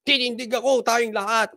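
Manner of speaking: a mild imitation of a voice that climbs in pitch; mock the speaker's rising, rallying tone. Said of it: "Pataas pa boses eh".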